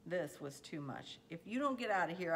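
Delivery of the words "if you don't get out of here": raised, higher voice in an angry threat; narrated shout, louder and higher. A narrator's reading. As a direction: shout it as a warning to a pestering sister. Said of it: "I shouted".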